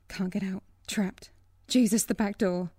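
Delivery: panicked whisper to herself. Acted. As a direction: breathe it out trapped.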